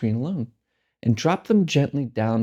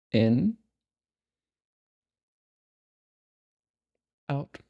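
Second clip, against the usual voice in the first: calm, unhurried meditation guide with long pauses; guided meditation. Real, not acted. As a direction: lead them gently into stillness, leaving space between phrases. Leads a breathing meditation.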